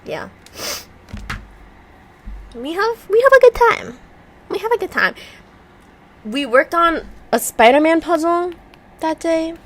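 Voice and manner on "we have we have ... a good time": high giggling voice; giggly. Real, not acted. Recalling the fun, high and giggly. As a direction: squeak it through laughter.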